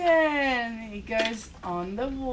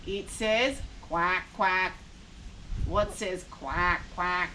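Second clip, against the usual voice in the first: low playful voice; 6 semitones lower, slower than usual. Acted. Asking toddler about duck.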